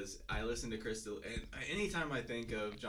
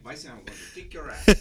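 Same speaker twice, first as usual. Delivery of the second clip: lightly imitated Van Damme accent; a hint of Van Damme's foreign accent. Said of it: "he has that accent".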